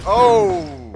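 sudden loud high "oh"; surprised gasp. Real, not acted. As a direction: yelp of surprise. Sudden exclamation.

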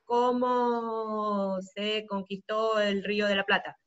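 slow, stretched-out words; drawn-out sample question. Shown as a demonstration. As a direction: draw out each word of the sample question.

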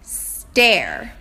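guessing word. Shown as a demonstration. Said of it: "Then I look at the picture".

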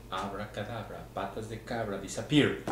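hushed magic spell rising into a call; kids party magician. Acted. Magic trick for a child.

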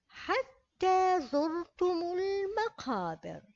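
slow recitation of all the verses. Shown as a demonstration. Teacher rereading the verses for pupils, slow. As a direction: recite each verse slowly and clearly. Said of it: "أعيد قراءة الآيات".

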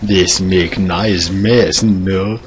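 slow broken-English character; put-on voice. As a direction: stretch it out in an odd foreign accent. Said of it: "I just like speaking in my voices".

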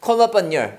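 "your" said short as "yo" after "upon"; linked pronunciation. Shown as a demonstration. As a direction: say "call upon your" in one linked run. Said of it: "yo로 발음납니다".

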